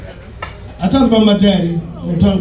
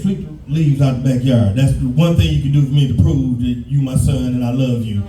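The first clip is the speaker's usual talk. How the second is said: a hint of a stern father, a touch lower; a mock-solemn dad laying down the law; lightly lower, faking dead-serious fatherly demands; lightly voiced dad; 6 semitones lower than usual. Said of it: "My dad said".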